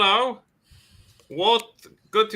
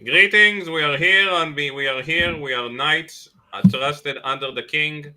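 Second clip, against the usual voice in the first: a touch of a herald's proclamation; formal knight; 3 semitones lower than usual. Acted. Player voices knight.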